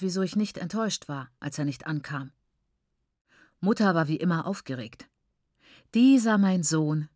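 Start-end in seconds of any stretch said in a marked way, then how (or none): 5.9-7.1 slow, sighing lament; sighing mother. Acted. Mother sighs over her absent son, slow and weary. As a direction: let it out like a weary sigh. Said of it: "seufzte sie".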